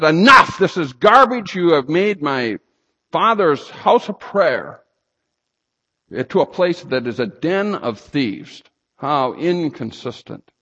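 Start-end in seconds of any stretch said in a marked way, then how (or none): 0.0-8.6 loud, higher, furious denunciation; angry rebuke. Acted. Jesus rebukes the temple traders, loud angry shout. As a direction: thunder it at the money changers.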